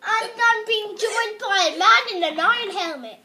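lively video-host introduction; Stampy impression. Player introduces a man in iron helmet, impression of a host. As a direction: introduce the co-player as a YouTuber would. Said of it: "here's my best impression of Stampy".

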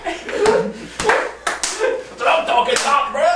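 slow, laughing bro cheer. Acted. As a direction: draw it out through a laugh.

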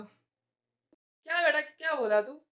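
long, slow, drawn-out क्या बेटा; a father wary of the boy asking about his daughter, slowly drawn out; suspicious drawl. Acted. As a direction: stretch it out, eyeing him suspiciously. Uncle suspicious of boy's question.

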